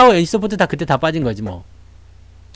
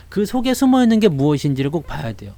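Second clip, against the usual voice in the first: normal talking voice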